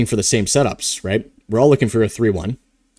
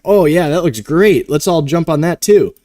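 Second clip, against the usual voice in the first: imitating an eager trader; 5 semitones higher, 4 dB louder than usual. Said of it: "It's like".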